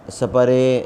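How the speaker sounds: سپرے broken up as sa-pa-ray; wrong pronunciation. Shown as a demonstration. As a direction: put short vowels after s and p in سپرے. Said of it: "یا سپرے یا اس طرح کا کچھ بھی".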